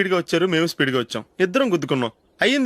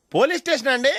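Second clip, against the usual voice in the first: eager phone report; 7 semitones higher than usual. Acted. Fake police call, eager tattling.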